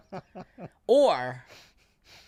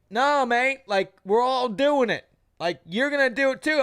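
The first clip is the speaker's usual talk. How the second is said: insistent Aussie mate; 6 semitones higher, 3 dB louder than usual. Retold or imitated. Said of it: "He's like".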